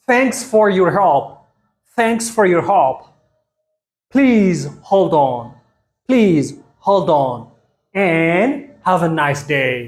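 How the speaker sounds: very slow, drawn-out teacher pronunciation; very slow model phrases. Shown as a demonstration. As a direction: stretch every word so learners can follow. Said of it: "ብፕሮናንሴሽን ተጠቒሞም ከመይ ከም ዘንብብዎ". (ኣዝዩ ቀስ ኢልካ ነዊሕ ምድምጻጽ)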